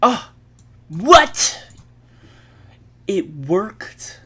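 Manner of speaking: sudden high shocked yelp; surprised. Real, not acted. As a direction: caught off guard, shout it. Program unexpectedly works.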